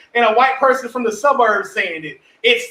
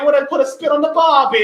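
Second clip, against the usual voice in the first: slightly raised, hammed-up tourist Australian accent; mock Australian accent; 4 semitones higher, 3 dB louder than usual. Mocking tourists who copy Australian slang, mock Australian accent. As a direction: imitate an American attempting an Australian accent. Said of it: "trying to use Australian terms and accent".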